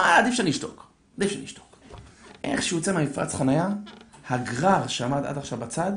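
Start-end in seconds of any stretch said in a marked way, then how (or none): 0.0-0.9 voiced thought, rising high then dropping; self-restraint. Father decides aloud to hold back. 1.2-1.8 quiet, breath-only repeat; muttered to self. Acted. Same thought repeated under the breath.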